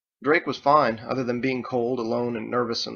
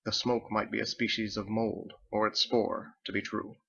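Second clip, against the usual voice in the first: lightly voiced old captain; 3 dB quieter than usual. Captain reminisces to the crew about an old acquaintance, softly. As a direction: muse quietly like a pipe-smoking captain.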